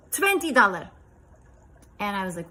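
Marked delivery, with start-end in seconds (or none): 0.1-0.9 put-on high, loud little boy with a Russian accent. Russian boy showing his silver coins, high Russian accent. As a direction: imitate an excited Russian child. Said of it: "this is my best Russian accent".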